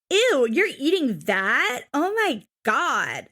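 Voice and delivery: slow, drawn-out mock disgust; exaggerated swooping ew of horror; mocking cringy talk. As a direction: mimic a grossed-out teenager. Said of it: "when people talk like that".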